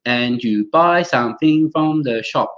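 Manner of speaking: put-on slow, evenly weighted Cantonese-accented English; syllable-timed Hong Kong English, each word separate. Teacher imitating people in Hong Kong, Cantonese accent. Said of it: "Cantonese, if you go to Hong Kong, people will be like".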